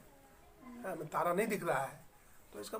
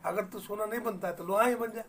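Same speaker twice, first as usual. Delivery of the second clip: angry retort, louder; 5 semitones higher, 3 dB louder than usual. Retold or imitated. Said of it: "अब गुस्सा में बोलता है".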